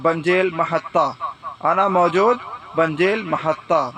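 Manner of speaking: slow teaching demo. Shown as a demonstration. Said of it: "تو آپ بولیں گے".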